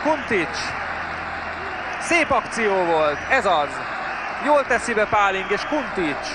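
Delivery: urgent match commentary, rising with each chance; live play-by-play. Real, not acted. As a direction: call the attacking moves live.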